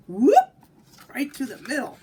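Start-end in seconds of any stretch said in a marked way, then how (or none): 0.1-0.5 loud, high whoop of a quick escape; excited whoop. A narrator's reading. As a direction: burst out with a gleeful whoop. Aluki dives through the legs.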